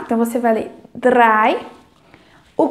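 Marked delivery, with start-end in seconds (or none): 1.0-1.6 drei said as "drai", E sounding like A; teaching pronunciation. Shown as a demonstration. Teacher shows learners how drei sounds, carefully. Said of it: "o E tem som de A".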